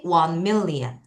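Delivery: very slow, drawn-out model reading; slow teacher model of a number; slow repeat. Shown as a demonstration. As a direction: say it again slowly for the class to follow. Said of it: "다시".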